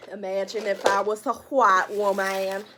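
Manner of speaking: loud put-on white woman voice; mock white woman. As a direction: play an exaggerated white woman, loudly. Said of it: "I'm just playing".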